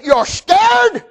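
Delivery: high, rising-pitched disbelief; incredulous. Retold or imitated. Preacher challenging a decorated soldier, incredulous.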